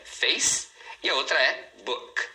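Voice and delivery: "face" and "book" each set apart; "face" and "book" with no vowel after either; syllables shown. Shown as a demonstration. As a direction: isolate "face" and "book" as two English syllables. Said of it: "só tem duas sílabas".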